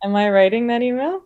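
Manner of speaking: talking without moving lips; ventriloquist-style, lips still; lips barely moving. Real, not acted. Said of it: "how you can speak without moving your lips".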